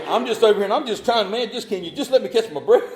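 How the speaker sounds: high, loud, laughing through the words; laughing plea. Retold or imitated. Pleading with the cop, laughing hard. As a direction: beg for a breath while cracking up.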